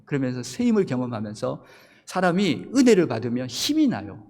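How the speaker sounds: normal talking voice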